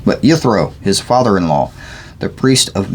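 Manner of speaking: measured, deliberate Bible reading; scripture read aloud. Real, not acted. Reader sharing scripture aloud, measured reading. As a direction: read the passage aloud clearly.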